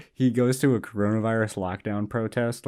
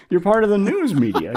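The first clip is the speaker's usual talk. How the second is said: imitating an old protester's pitched-up accusing shout; heated retort; 10 semitones higher, 6 dB louder than usual. Retold old protester snapping at the host, mock accusing shout. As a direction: jab the accusation at him, high and loud.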